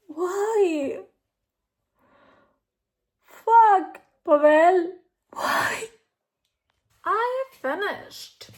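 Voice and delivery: very loud, high, anguished; real distraught cry. Real, not acted. Reader distraught after the ending, anguished outcry.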